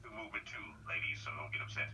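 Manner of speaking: soft unvoiced aside; whisper. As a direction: whisper it to the ladies. Confides aside to female agents.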